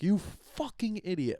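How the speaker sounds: hammed-up nasty jab at someone; mock insult. Wrong way to swear at someone, mock nasty jab. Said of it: "I think that's wrong".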